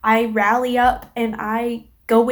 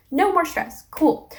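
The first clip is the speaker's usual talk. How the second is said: higher-pitched, dry sarcastic reaction; mock-cheerful sarcasm; 6 semitones higher, slower than usual. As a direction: lightly feign relief at more bad luck. Sarcastic inner reaction to stressful day.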